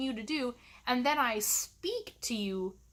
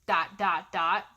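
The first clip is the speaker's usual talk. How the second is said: snarky. Pretend. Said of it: "I want to say things like".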